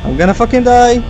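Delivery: high, slowing dread wail; panicked despair. Real, not acted. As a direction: drag it out in doom. About to be killed in game.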